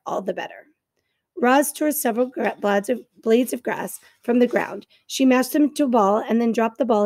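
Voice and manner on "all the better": whisper. Real, not acted. Whispered aside.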